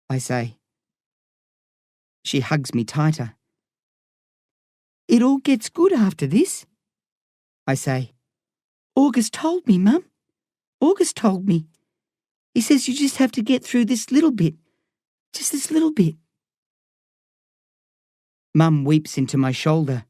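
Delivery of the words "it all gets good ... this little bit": put-on higher boy voice, earnest and pleading; a son begging his mum to hold on; young boy pleading. A narrator's reading. A boy pleads with his weeping mum, higher voice.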